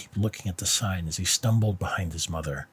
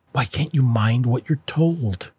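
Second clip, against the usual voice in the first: raised, sharp scolding; angry mother; 4 semitones higher than usual. Acted. Mother scolding her son, raised angry voice.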